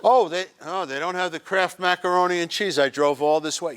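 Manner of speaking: mock whiny complaint. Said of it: "complaining about the macaroni".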